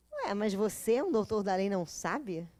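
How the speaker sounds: Jesus teasing Nicodemus, lightly sarcastic. Retold or imitated. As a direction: needle him with fake surprise. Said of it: "você tá sendo sarcástico".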